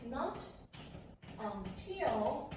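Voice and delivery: teacher stressing Not until. Shown as a demonstration. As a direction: hit Not until as you write it on the board. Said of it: "write it like this".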